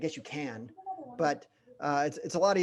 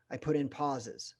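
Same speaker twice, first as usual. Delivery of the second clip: slow, then hold a long silence after pauses; deliberate pause; 2 semitones lower, 6 dB quieter than usual. Shown as a demonstration. Trainer demonstrating a dramatic pause to the team. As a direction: let the words hang before going on. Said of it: "like I just did right there".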